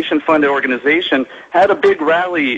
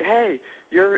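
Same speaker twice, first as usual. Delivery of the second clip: retold yelling; 5 semitones higher than usual. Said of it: "a group of people starts yelling at us".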